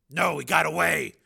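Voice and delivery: high, loud urgent report; shouted reply. A narrator's reading. Steele reporting to Ice at the truck, shout. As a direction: call back over the engine noise.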